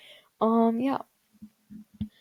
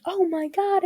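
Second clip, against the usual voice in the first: retold gasp; 9 semitones higher, slower than usual. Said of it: "I was, like, gasping".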